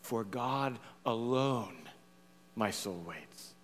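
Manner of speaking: low, slow, soft psalm recitation; quiet reverence. Acted. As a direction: let it sink into a hushed prayer.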